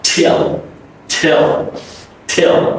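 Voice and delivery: "till" with a puffed T and gliding dark L; correct till. Shown as a demonstration. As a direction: glide from short i into L in "till". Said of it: "It's not till".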